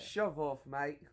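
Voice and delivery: mock British dismissal. Demonstrating British slang dismissal.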